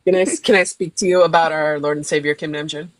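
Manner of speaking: low-voiced doorstep evangelist; mock-earnest deep recruiting voice; mock missionary. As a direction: pitch it low like a solemn door-to-door preacher. Parodies low greeting as a missionary.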